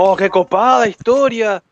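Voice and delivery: mock goddess. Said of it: "La diosa ahí".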